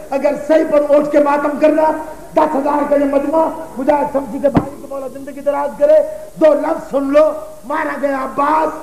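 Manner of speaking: mournful, chanting sermon cadence, lines falling at the ends; lamenting majlis recitation. Acted. Preacher recounting Karbala to mourners, lamenting recitation. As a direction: mourn the tale aloud to the gathering.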